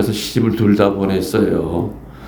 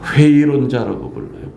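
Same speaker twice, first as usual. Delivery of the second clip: ordinary talk, nothing marked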